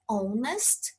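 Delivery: "honest" starting on the vowel; silent h. Shown as a demonstration. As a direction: drop the h in "honest". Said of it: "leio ela com som mudo".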